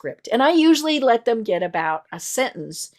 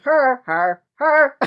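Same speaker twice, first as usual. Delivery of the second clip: insistent pointing out; 4 semitones higher, 4 dB louder, much slower than usual. Retold or imitated. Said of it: "Tom kept saying".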